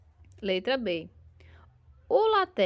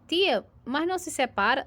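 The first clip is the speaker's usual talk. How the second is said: pupil's question; 5 semitones higher, 4 dB louder than usual. Pretend.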